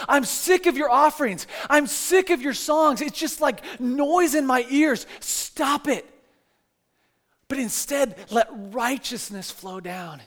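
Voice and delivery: sick of it, let it show; God telling Israel he is fed up. Retold or imitated.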